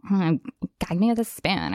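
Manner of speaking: put-on Valley Girl accent with vocal fry. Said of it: "Valley Girl dialect".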